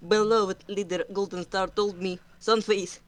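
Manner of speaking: loud, earnest in-character excuse; Sunface in character. Acted. Cat warrior recalling his leader's orders, loud and proud. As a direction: defend himself proudly, loud.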